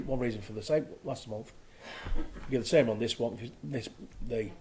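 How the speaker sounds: speaking with a dry mouth; dry-mouthed, sticky speech. Real, not acted. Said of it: "sorry, I've got a dry mouth".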